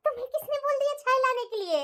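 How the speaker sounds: fussy, loving mother-in-law scolding gently; doting mother-in-law. Acted. Mother-in-law stops her new daughter-in-law making tea, doting. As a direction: coddle the new bride like a fussing mother-in-law.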